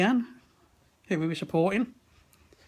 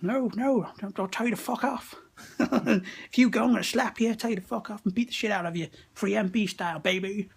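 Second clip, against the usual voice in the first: imitating Drew; 4 semitones higher than usual. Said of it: "And he's like".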